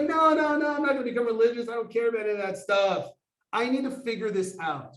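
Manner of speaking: retold high-pitched, fast reassurance; hurried protest. Son insists to parents he won't become religious, hurried high protest. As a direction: protest in a rush, pitched high, settling slightly.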